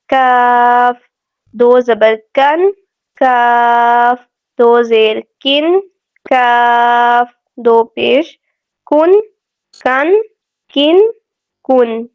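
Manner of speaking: کاف drawn long with a light k; thin kaf. Shown as a demonstration. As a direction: spell out کن slowly, the k thin and forward. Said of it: "کاف کو ہم باریک پڑھیں گے". (کاف باریک)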